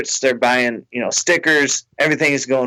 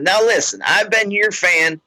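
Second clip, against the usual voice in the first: higher, insistent fan voice; tipsy fan; 5 semitones higher than usual. Retold or imitated. Fan pressing the comic about her ex, higher. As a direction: lean in, sure he knows.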